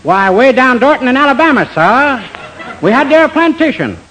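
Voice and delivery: overdone fake Southern charm; fake Southern accent. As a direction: play a phony Southern gentleman. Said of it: "pardon by me the southern accent".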